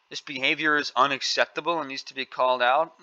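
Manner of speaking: "This behavior is unacceptable" with a sarcastic rising tune on "behavior"; scornful echo ending up in a question-like rise; parroting the phrase with contempt; mocking quote. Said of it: "that's not the way that a young girl talks".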